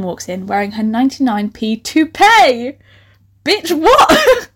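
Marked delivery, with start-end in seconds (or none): 3.4-4.5 high, disbelieving outcry; incredulous outburst. Real, not acted. Reader reacting to her own absurd story, incredulous. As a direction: blurt it out high, aghast at the writing.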